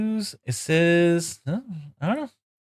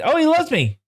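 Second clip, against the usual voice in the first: delighted squeal; 4 dB louder than usual. Real, not acted. Excited over horse.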